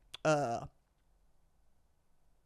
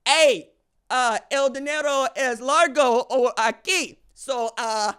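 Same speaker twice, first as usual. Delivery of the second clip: loud, slow hammed-up voice of the recruit chasing money; mock recruit cashing in; 5 semitones higher, 9 dB louder, slower than usual. Host mocking a recruit who follows the money, in a loud hammed-up voice. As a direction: play the player, louder, announcing he's coming home. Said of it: "as they say".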